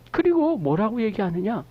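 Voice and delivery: ordinary delivery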